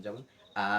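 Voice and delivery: আ held for two beats; one alif stretch. Shown as a demonstration. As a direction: stretch আ like two short syllables. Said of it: "ততটুকু হচ্ছে আপনার এক আলিফ টান".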